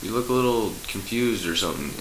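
high, friendly angel voice; laid-back angel. Acted. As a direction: call out to the confused zebra. Second angel voiced in joke.

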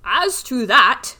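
lightly voiced old tree; slow tree voice. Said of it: "said the tree".

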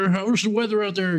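high, chatty small-talk voice; chatty patient. Retold or imitated. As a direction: ask it brightly as a patient would. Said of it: "they're like".

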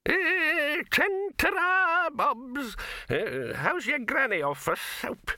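put-on very high, slow, crowing old man; high old man's triumphant cry, honking the horn. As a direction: crow it out like a gleeful old codger. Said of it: "he muttered triumphantly".

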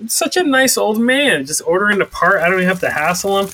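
high, sweet mock gush over the kind old man. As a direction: gush sarcastically about the nice old man. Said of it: "And I was like".

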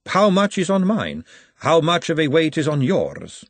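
a lady pushing back with a question; lady character. A narrator's reading. Lady Margalotta speaks.

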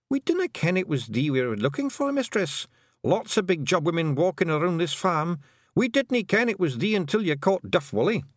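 high, rough Scottish little man murmuring in awe; a wee Scots Feegle marvelling at writing. A narrator's reading. Feegles watching Tiffany write, awed Scots murmur. Rob Anybody explains.

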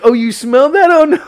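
high, loud mock panic; imitated freak-out. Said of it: "you know, freak out".

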